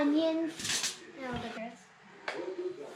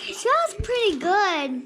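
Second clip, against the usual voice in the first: loud, eager praise; loud calling out; 3 semitones higher, 5 dB louder than usual. Real, not acted. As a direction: call it out loudly to dad. Child calls out loudly.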